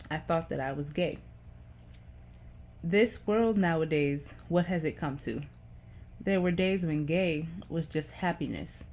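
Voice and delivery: deliberate spoken-verse delivery, phrase by phrase; poem reading. Acted. Vlogger reads a teenage poem to viewers, measured recital.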